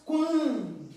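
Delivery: "quando" with a loud, long "quan"; stress on QUAN. Shown as a demonstration. Teacher pointing out the strong syllable, stressed "quando". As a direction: hit and hold the first syllable of "quando". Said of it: "Também é a sílaba tônica forte".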